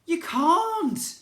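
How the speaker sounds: high, loud blurted no; blurted refusal. A narrator's reading. Narrator boy refusing the prince, high loud blurt. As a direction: blurt it out before thinking. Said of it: "words just shot out of my mouth".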